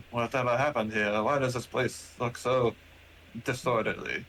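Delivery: lightly voiced robot, puzzled; a hint of a formal machine; robot character. Robot looks round the disordered room, lightly puzzled robot voice. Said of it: "he's looking around like".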